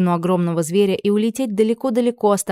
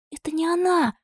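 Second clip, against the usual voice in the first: heated defence; 12 semitones higher than usual. A narrator's reading. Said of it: "горячо вступилась девочка".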